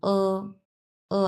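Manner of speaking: "ও" as an unrounded back vowel, lips spread; a held "uh"-like "ও" with no rounding. Shown as a demonstration. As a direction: say "ও" through a slight smile, teeth showing. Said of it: "তো এইরকম".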